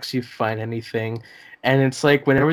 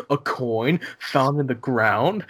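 slow, lightly hammed narrator line; a hint of a portentous narrator announcing a find; mock documentary narrator; slower than usual. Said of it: "he's asking all these questions".

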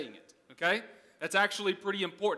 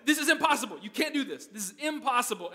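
higher-pitched mock scolding; hammed-up outburst, high at the start; retold angry Dutchman; 4 semitones higher than usual. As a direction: imitate an exasperated man telling someone off. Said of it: "starts screaming at me in Dutch".

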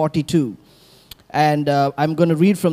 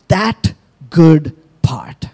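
whisper; much slower than usual. Acted. Dramatic whispered verse.

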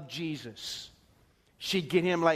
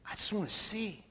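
much softer, humble plea; pleading softly; 9 dB quieter than usual. Retold or imitated. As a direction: ask quietly for the one thing you need. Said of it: "What do you want, Bart".

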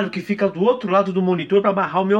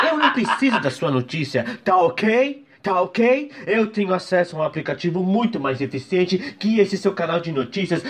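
telling off. Retold or imitated. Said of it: "ligar lá e falar assim".

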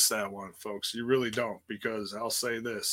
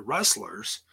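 air quotes; 3 semitones lower than usual. Real, not acted. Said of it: "using my quote fingers here".

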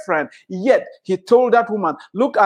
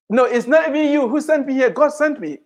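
lightly voiced Joseph, higher and earnest; Joseph's voice; 5 semitones higher than usual. Preacher voices Joseph telling his brothers God sent him. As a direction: lift the voice a little as Joseph.

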